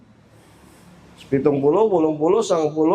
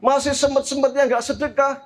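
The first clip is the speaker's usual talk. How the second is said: higher-pitched, incredulous listing; acted disbelief in a raised voice; shocked mother; 6 semitones higher than usual. Mother learns people still skip worship, incredulous. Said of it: "Maka ibu ini kaget".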